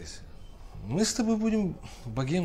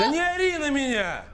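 shouting; 12 semitones higher than usual. Acted. Shouting back at her.

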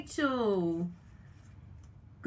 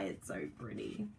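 much lower and much softer; mock-tearful low murmur; 13 semitones lower, 12 dB quieter than usual. Real, not acted. Crafter says the paper makes her want to cry, low soft murmur. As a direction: mumble it as if about to cry.

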